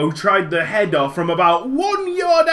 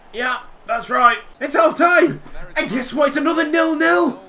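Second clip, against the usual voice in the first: getting angry; 4 semitones higher than usual. Real, not acted. Gamer fuming at half time, angry shout. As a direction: snap it out in frustration. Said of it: "I'm getting a bit angry".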